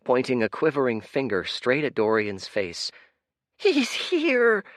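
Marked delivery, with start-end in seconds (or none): 3.6-4.6 very high, loud excited cry; cried out. Acted. Urchin crying out to the crowd, very high and loud. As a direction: shout to the whole crowd.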